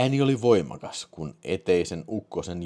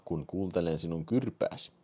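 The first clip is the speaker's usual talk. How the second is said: ordinary delivery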